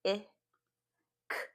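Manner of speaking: short "I" as ih, pause, then a bare "k" click; isolated phonemes. Shown as a demonstration. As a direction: sound out "I" and "k" separately. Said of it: "Second syllable".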